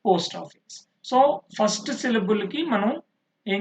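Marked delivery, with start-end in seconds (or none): 0.1-0.8 strong పోస్ట్, weaker ఆఫీస్; first-word stress. Shown as a demonstration. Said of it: "first syllable is stressed".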